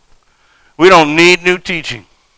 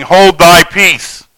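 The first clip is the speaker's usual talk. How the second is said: stern rebuke. Acted. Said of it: "And Jesus rebuked him, saying".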